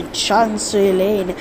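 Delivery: Chancery Lane said slowly in a weak British accent, "Chancery" as /ʃɑnse/; mock-announce the station in a bad British accent; slow, failed British accent on Chancery Lane; attempted British accent. Shown as a demonstration. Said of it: "I can't speak in a British accent".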